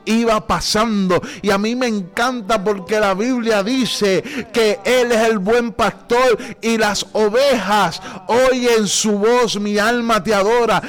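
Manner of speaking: sermon gathering force toward a climax; building preaching. Real, not acted. Preacher telling how Bartimeo heard Jesus passing, building fervour.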